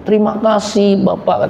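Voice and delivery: mock-tearful gratitude; tearful thanks. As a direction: mildly act out a sobbing driver. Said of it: "dia nangis terseduh".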